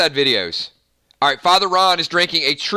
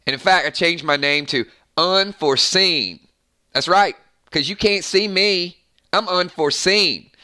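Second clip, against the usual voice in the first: put-on a light Southern accent, quick and playful; Southern drawl. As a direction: brag like a good old Southern boy. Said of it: "because I am from the South".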